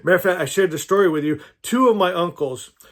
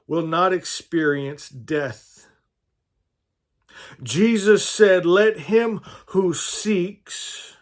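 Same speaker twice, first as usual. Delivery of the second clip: slow, deliberate reading with long pauses; scripture reading; slower than usual. Acted. Preacher reading sayings of Jesus to the group, measured scripture reading.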